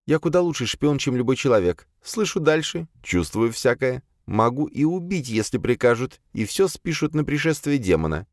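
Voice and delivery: high-pitched female character voice, matter-of-fact account; servant demoness recounting. A narrator's reading. Azalia begins her account to the exorcist, high servant voice. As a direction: raise the pitch well up for the demoness.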